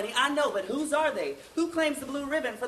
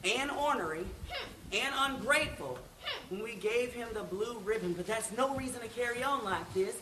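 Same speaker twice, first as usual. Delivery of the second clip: softer, soothing fatherly talk; gently calm an upset child; consoling; 4 dB quieter than usual. Acted. Father to upset daughter, soft consoling.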